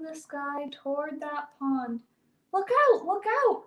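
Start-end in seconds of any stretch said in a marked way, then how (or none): 2.5-3.6 high, urgent shouts; quick high-pitched warning cries; yelled warning. A narrator's reading. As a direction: yell it out as an alarm. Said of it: "all the animals yell to Old Woman".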